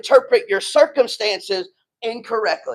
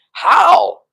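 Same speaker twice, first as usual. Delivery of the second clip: bewildered how; 4 semitones higher, 4 dB louder than usual. Retold or imitated. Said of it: "you're like".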